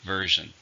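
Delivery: "Version" with the first syllable stressed. Shown as a demonstration. Teacher models the word after counting syllables, "Version" stressed on the first. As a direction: model "Version", VER strong, second syllable weak. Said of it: "stress on the first".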